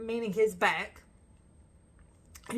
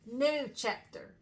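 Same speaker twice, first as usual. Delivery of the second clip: slow quote; 3 semitones higher, slower than usual. Retold or imitated. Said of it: "he kept saying it real, real slow".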